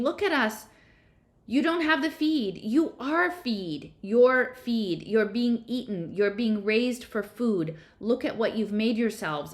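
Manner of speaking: high, loud accusing screams; frantic high scream, slowing on the last lines. A narrator's reading. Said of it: "Violet was screaming".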